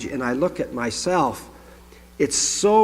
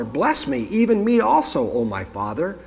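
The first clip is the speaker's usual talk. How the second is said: high-pitched plea, falling away at the end; a touch of anguished pleading, pitched up; bitter cry; 7 semitones higher than usual. A narrator's reading. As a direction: read it as an understated bitter outcry. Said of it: "cried out with an exceedingly great and bitter cry".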